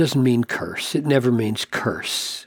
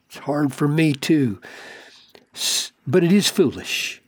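tender rebuke. Retold or imitated. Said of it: "I imagine him saying".

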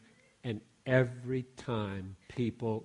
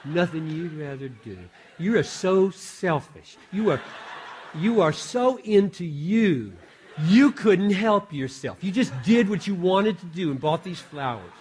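higher, hammed-up accusing wife; mock-indignant wife; 5 semitones higher, 6 dB louder than usual. Wife absurdly scolding husband for selfishness, mock-indignant. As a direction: act an outraged wife, slowing down and building louder. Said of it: "would my wife ever say".

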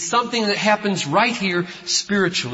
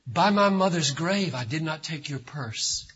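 quoted oath; 5 semitones lower, 7 dB quieter than usual. Retold or imitated. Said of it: "You say".

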